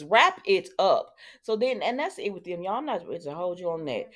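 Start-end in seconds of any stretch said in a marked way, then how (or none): 0.0-1.1 slow, each word stretched; drawn-out plea. Real, not acted. Vlogger begging the show to end a storyline, drawn-out plea. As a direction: plead slowly, leaning on every word.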